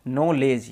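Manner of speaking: "नॉलेज" as no-lej, no K or D; silent K and D. Shown as a demonstration. Teacher models spelling rule for learners, "नॉलेज" with silent D. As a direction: say "नॉलेज" without a D before the J. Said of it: "डी को silent कर".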